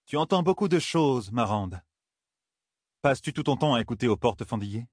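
lightly voiced queen, starting high then settling; a touch of a reproving queen; queen's retort. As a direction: question a gossiping courtier, lightly in character.

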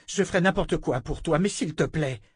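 earnest, rising plea; pleading. A narrator's reading. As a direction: beg her to believe you. Richard begging.

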